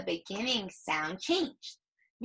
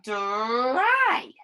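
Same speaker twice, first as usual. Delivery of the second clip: "Dry." said loud; proud answer; 6 dB louder than usual. Shown as a demonstration. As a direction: announce the word with pride. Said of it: "Now what is it?".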